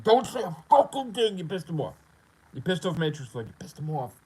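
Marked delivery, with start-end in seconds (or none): 0.0-1.9 high, loud mock panic; hammed-up panic among the haters; panicked whisper-shout. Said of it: "They're like".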